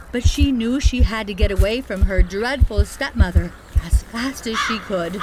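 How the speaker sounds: ordinary delivery, nothing marked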